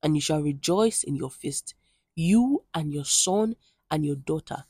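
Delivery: scripture reading. Acted. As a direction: read the passage aloud to the congregation, measured and solemn. Reads next chapter aloud.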